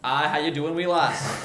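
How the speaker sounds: chatty put-on Glaswegian greeting; playful Glaswegian hello, meant to fool listeners; Glaswegian accent. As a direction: greet someone in a Glasgow accent. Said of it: "I'll trick people in America".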